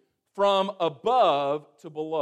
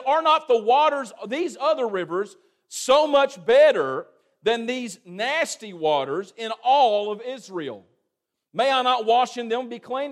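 louder, scornful outrage at Israel's waters; angry Naaman; 3 semitones higher, 4 dB louder than usual. Acted. Indignant raised voice. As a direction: Naaman scorns the muddy Jordan, angrily raised voice. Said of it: "And he was angry".

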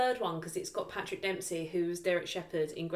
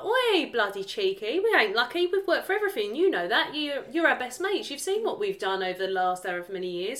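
mock telling-off; 5 semitones higher than usual. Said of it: "I think I'd be like".

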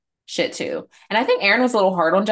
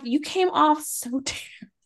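laughing scold; 10 semitones higher, 5 dB quieter than usual. Retold or imitated. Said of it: "I'm like".

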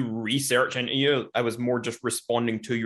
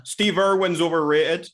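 slow, raised-pitch goading; deliberate taunt; 4 semitones higher, slower than usual. Acted. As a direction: spell out the jab slowly. Deliberately baiting the Australian host.

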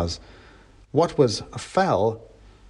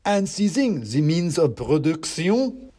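high, slow slogan in character; declaiming mouse revolutionary; 5 semitones higher, slower than usual. A narrator's reading. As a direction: declaim it as a tiny agitator.

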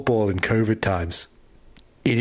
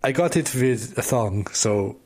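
mock German soldier; 2 semitones higher than usual. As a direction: play a dim German soldier. German soldiers naming the castle.

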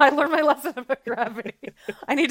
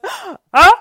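mock showy entrance; 8 semitones higher, 12 dB louder than usual. Acts Seth's grand entrance.

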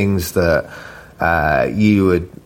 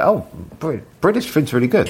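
foreign chef voice; 6 semitones higher than usual. Retold or imitated. Chefs voiced, foreign impression.

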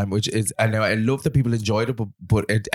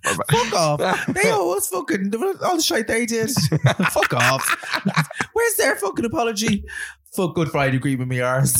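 mock angry rant; 11 semitones higher than usual. Mock rant as Northern patron.

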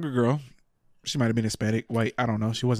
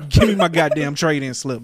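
mock angry demand; 3 semitones higher, 5 dB louder than usual. Angry rant at clerk.

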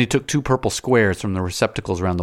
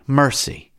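high raised plea; cry for mercy; 7 semitones higher, 4 dB louder than usual. A narrator's reading. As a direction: beg for mercy aloud. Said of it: "to cry".

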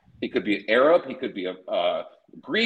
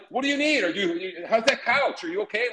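put-on much higher, fussing old lady checking on a guest; higher voice of a doting grandmother asking after a guest; 6 semitones higher than usual. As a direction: fuss over him like a caring grandma. Voicing a fussing Mexican grandmother.

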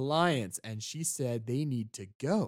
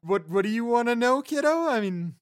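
high, bright sing-song kiddo voice; talking to a child; 6 semitones higher, 6 dB louder than usual. Acted. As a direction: explain the world to a small child, higher. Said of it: "like you're five".

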